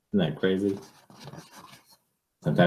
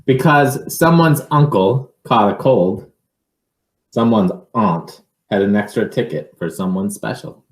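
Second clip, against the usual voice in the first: animated read-aloud, some phrases louder; picture book reading; 5 semitones higher, 6 dB louder than usual. Acted. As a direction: tell the story to a child, building it up.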